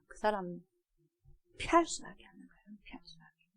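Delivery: hushed, whispered aside. Acted. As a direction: drop to a whisper. (속삭임)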